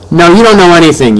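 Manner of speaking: loud, high furious cut-off; angry yell. A narrator's reading. Grandmother yelling at mom mid-sentence, furious. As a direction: shout her down. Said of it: "yelled Grandmère".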